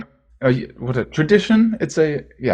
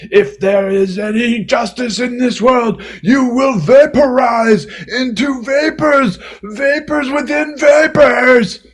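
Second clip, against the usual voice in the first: hammed-up angry rant with shouted bursts; mock rage; 2 semitones higher than usual. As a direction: rage at him for show, half-joking. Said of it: "you can now rage at me".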